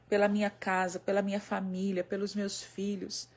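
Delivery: low, subdued prayer to the Lord. Acted. Woman entrusting bad news to the Lord, quiet prayer. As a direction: pray it evenly, softening toward the end. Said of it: "nós podemos dizer assim".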